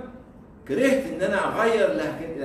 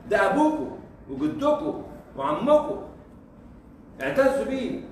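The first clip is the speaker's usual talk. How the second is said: proud exclamation; 7 semitones higher than usual. Real, not acted. Proud call to honour Hassan Fathy.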